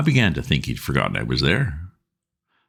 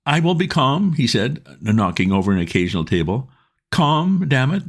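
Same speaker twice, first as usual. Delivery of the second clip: put-on higher, louder flustered young man; trying hard to be calm and failing; agitated Bingo; 10 semitones higher, 3 dB louder than usual. A narrator's reading. Bingo bursting in on Wooster, agitated.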